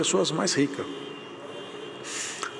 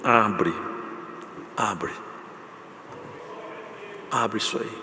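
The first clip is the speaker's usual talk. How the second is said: commanding voice; 4 semitones lower, 7 dB quieter, much slower than usual. Retold or imitated. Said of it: "Jesus falou".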